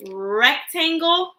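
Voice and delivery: "rectangle" with a long, held R at the start; drawn-out first sound. Shown as a demonstration. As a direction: stretch the opening R of "rectangle". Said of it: "Listen to the beginning sound".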